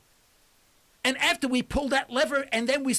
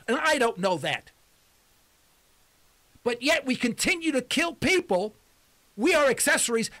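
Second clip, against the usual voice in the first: raised pitch, emphatic and agitated; agitated rant; 4 semitones higher than usual. Real, not acted. Radio host confronting listeners about drone killings, agitated rant. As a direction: hammer each accusation home. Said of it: "I'm screaming over the radio".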